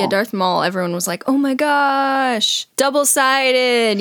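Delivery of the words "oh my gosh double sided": slow, higher awed gushing; drawn-out starstruck gasp; mock awe. Mocking fans' awe.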